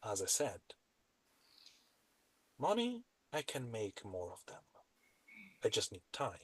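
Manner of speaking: hushed, very soft role-play voice; softly spoken in-character dealmaker; quiet, scheming character. Acted.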